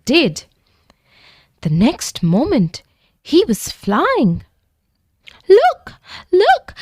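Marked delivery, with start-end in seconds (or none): 5.5-6.8 amazed at himself; gasping with joy. A narrator's reading. The little dragon finding he can fly, gasping with delight. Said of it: "he gasped".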